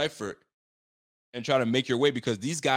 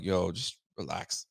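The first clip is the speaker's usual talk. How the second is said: calm; 5 semitones lower, 5 dB quieter, slower than usual. Retold or imitated. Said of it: "I'm like".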